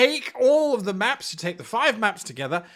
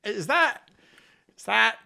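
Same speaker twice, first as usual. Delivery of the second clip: sneering map critic. Retold or imitated. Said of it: "look at the map and go".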